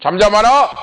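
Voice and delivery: loud, high mock rebuke; retold scolding. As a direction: act out a crowd's sharp order to hush. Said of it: "많은 사람들이 꾸짖어". (군중이 꾸짖듯 높고 크게)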